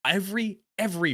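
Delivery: measured generalized accent without the Boston. Shown as a demonstration. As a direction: switch to a careful generalized American accent. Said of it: "you hear me shift between these two".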